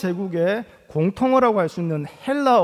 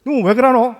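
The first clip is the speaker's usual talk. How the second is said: louder, higher Gyeongsang dialect outburst; startled Gyeongsang dialect; 4 semitones higher, 7 dB louder than usual. Retold or imitated. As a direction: blurt it in Gyeongsang dialect, caught off guard. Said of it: "깜짝 놀래가지고".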